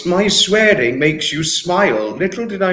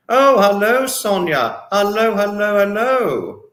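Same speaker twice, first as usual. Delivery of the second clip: high sing-song hellos; excited greeting; 6 semitones higher than usual. Real, not acted. Streamer greeting a viewer, high and sing-song.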